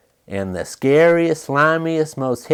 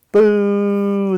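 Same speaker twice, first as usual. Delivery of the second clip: hollered; 7 semitones higher than usual. A narrator's reading. Duck and Goose to the monster, a playful holler. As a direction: shout to scare the monster. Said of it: "they hollered together".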